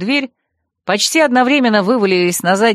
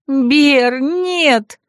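high, horrified cry; sharp rising cry of protest; alarmed gasp; 6 semitones higher than usual. A narrator's reading. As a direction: gasp it out in dismay. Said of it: "ахнула я со стола".

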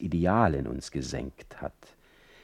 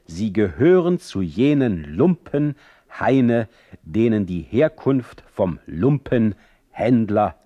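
louder, biting parting insult; cutting sharpness; 3 semitones higher, 5 dB louder than usual. Acted. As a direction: cut him down over the shoulder. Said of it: "mit schneidender Schärfe".

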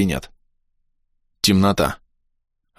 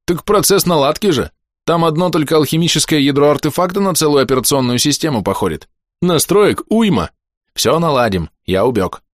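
put-on higher, eager young man; 7 semitones higher than usual. A narrator's reading. Eager helper explains quickly.

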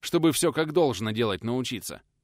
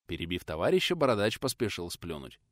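usual speaking voice

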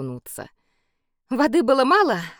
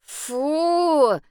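disgusted fu; 8 semitones higher, 3 dB louder than usual. A narrator's reading. Boy waves at smell.

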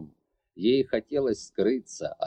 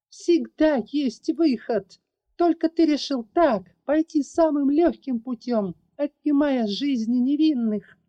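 furious; 12 semitones higher, 4 dB louder than usual. Acted. Larry insisting there is always a way, furious. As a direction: lean hard on "всегда" in fury. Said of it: "прошипела".

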